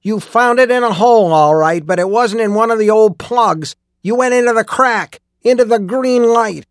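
furious accusation. A narrator's reading. Old miner accusing the skin-changer, furious shouting. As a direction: drive the accusation home in a raging shout. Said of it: "He was furious".

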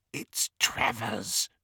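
high, slow, hissed warning; goblin's hiss. A narrator's reading. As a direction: hiss the name into someone's ear. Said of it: "hissed the goblin into Harry's ear".

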